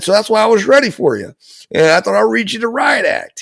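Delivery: high, brisk retold father; imitating dad's excited talk. Father explaining the backstory to his son, excited. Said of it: "he's yelling, but not in a bad way".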